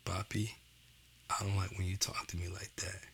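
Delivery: put-on soft, whispered plea of a child; little girl hurt. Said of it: "She told me".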